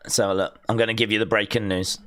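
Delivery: low, fast mock breaking-news voice; a hint of a TV news anchor; mock newsreader. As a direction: announce it like a news anchor, deep and quick.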